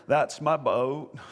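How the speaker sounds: slow, drawn-out, hammed-up indignant claim; overdramatic claim. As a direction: ham it up like a wronged kid. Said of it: "No, I don't think he said it like that".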